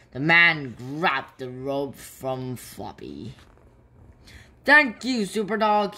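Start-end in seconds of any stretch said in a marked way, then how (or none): 4.6-6.0 high, loud thanks called across; grateful call out. A narrator's reading. Rescued man on the girder thanking Super Dog, loud call. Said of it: "he called".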